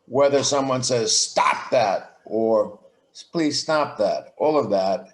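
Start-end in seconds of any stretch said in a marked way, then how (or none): 1.2-2.2 blunt, short order without softening; just tell them to stop, firmly; flat firm stop that; curt command. Shown as a demonstration. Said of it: "tone of voice". 3.3-4.3 slower, gentler ask with please; polite request. Shown as a demonstration. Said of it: "tone of voice".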